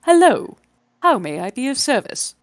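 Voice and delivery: high, loud recorded British robot voice; garbled British robot. Acted. The robot greets the party in a garbled British voice. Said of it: "garbled, Britishy sounding accent".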